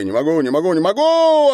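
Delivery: rising to a very high loud cry; can't hold back; strained cries. A narrator's reading. Andrey cries out, rising to a very high loud cry.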